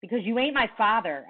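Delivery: snapped. Acted. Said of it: "I snapped".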